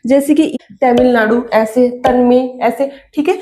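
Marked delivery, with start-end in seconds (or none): 0.8-1.4 Tamil Nadu with dental T; soft T sound. Shown as a demonstration. Teacher giving a Hindi-word example, soft T. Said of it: "त का use करते हैं". 2.0-2.4 Tanmay with dental T; soft T sound. Shown as a demonstration. Teacher giving a Hindi name example, soft T. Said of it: "त का use करते हैं".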